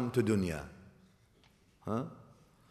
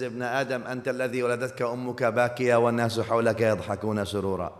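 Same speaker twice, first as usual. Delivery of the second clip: poem recitation; much faster than usual. Acted. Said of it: "the poet says".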